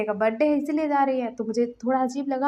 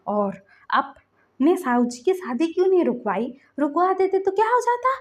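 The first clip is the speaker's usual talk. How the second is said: angry scolding; 2 semitones higher than usual. Retold or imitated. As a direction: lecture him, getting sharper. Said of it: "लांसन गुस्सा कर रहा था".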